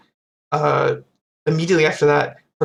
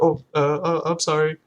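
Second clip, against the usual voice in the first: hesitant, mildly sheepish retold apology; mock embarrassed apology. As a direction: stumble lightly into a sheepish sorry. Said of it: "He's, like, so embarrassed about it".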